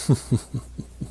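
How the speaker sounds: drawn-out hushed mock laugh; dog's mock chuckle. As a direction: imitate a dog's quiet snickering. Dream dog laughs at him.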